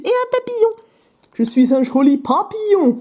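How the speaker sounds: petite voix chantante et perchée, pour jouer; papillon pour rire. Pretend. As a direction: fais le papillon d'une voix aiguë, en étirant. Joue le joli papillon. (voix de papillon, pour rire)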